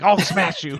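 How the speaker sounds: dumb brute threat, voiced lightly; a hint of a dopey bruiser; dopey cartoon bellow. Retold Hellboy threat.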